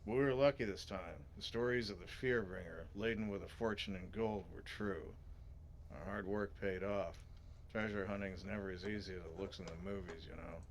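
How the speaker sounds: lightly voiced treasure hunter; a modest attempt at a movie adventurer; Indiana Jones. Salvage leader tells of hard work paid off, lightly gravelly hero voice. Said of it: "I'm too gravelly".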